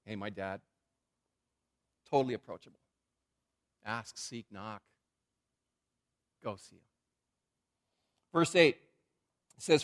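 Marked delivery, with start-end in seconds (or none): 0.0-6.8 proud and gentle. Retold or imitated. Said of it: "Jesus just says very proudly".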